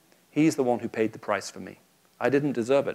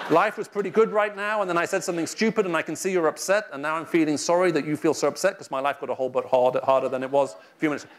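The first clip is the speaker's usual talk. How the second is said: whiny self-pity; 5 semitones higher than usual. Retold or imitated. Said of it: "It means".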